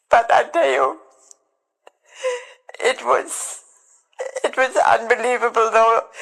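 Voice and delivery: fighting back tears while telling it; choked up. Real, not acted. Recalling waiting to hear if her mother lived, voice straining.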